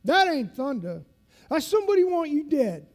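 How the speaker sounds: imitated instructor building to a high, loud challenge; instructor's voice. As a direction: challenge the recruits at full volume as the old instructor. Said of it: "he talks like this".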